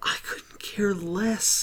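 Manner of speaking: breathy dismissive whisper, slowly. Acted. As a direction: whisper it like you're over it. Dismissive aside about director.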